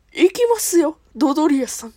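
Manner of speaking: Frieza impression. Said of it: "フリーザ".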